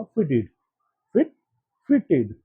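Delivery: फिटेड said evenly, no stressed syllable; फिटेड flat and even; no word stress. Shown as a demonstration. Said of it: "यहाँ पे word stress नहीं देना".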